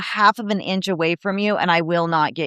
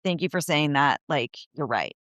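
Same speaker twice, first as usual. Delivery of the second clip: sheepish thanks; 6 semitones lower, 6 dB quieter than usual. Retold or imitated. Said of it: "she goes".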